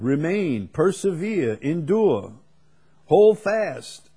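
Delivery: building emphasis. Real, not acted. Preacher stacking words on the congregation, rising in force. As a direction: climb to a ringing hold fast.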